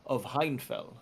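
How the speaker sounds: slow, measured butler announcement. Acted. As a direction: announce them slowly and formally as the butler. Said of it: "He says".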